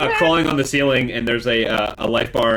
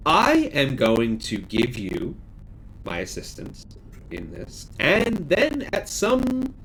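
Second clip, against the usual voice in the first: lightly voiced hostess, solemn offer. Hostess offers the players a gift and help, measured.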